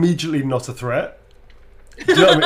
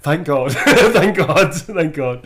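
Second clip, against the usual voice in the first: retold relief; 3 semitones higher, 8 dB louder, much slower than usual. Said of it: "It was very much like".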